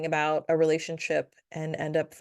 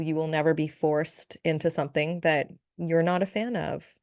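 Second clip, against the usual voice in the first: ordinary talk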